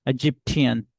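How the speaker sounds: Egyptian with tian pressed hard; stress on tian. Shown as a demonstration. Teacher showing the stress in Egyptian, stress on tian. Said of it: "you will stress on tian".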